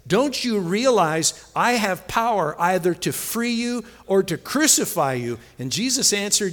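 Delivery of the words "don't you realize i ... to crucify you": lightly acted ruler asserting power, higher pitched; Pilate. Pilate warning Jesus of his power, mildly forceful. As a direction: press your authority on the prisoner. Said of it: "Pilate said".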